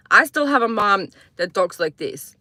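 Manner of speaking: lightly imitated Croatian-accented English; mother's Croatian accent. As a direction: talk with a hint of Mom's Croatian accent. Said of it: "speak in an accent".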